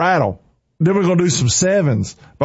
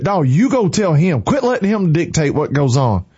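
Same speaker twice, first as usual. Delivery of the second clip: fired-up preacher rebuking the devil; real, forceful rebuke. Real, not acted. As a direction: preach it in short, emphatic declarations. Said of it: "can y'all tell I'm fired up this morning?".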